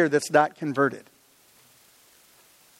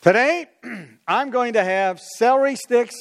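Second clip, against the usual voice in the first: higher, declaring the day's meal plan; put-on chipper declaration; mock morning resolve; 6 semitones higher than usual. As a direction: announce it like a proud resolution. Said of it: "getting up in the morning and going".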